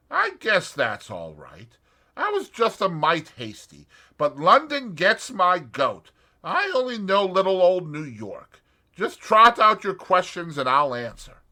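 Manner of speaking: put-on a light American accent, straight to business. A narrator's reading. Julius voiced.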